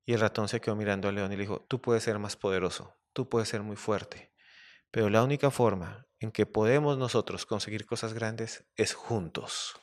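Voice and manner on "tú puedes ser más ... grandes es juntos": softer, slowing delivery of a lesson; wise little mouse. Acted. Mouse tells the lion they achieve more together, earnest.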